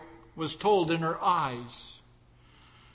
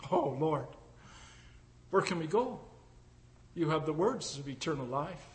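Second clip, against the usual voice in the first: hushed devotion; 9 dB quieter than usual. Acted. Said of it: "believer answers the Lord".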